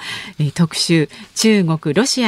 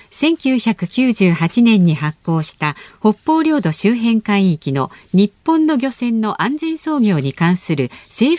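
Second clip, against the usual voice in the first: news read. Acted. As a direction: read it like the headline desk. Reads news segment intro.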